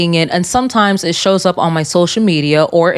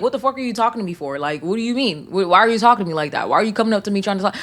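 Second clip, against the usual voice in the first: much softer, fast, incredulous muttering; hushed rapid rant; 5 dB quieter, much faster than usual. Retold or imitated. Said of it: "'cause I'm like".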